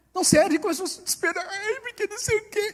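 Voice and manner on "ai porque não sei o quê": mock, high, whiny whimpering lament. Mocking people who despair when God says no, with mock whining. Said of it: "um bando de franguinhas chorando".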